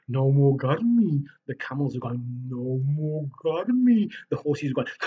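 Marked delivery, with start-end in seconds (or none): 0.1-1.2 loud, slow satisfied sigh of relief; slow happy elephant. Acted. 2.5-4.1 loud, very slow relieved drawl; slow content camel. Acted.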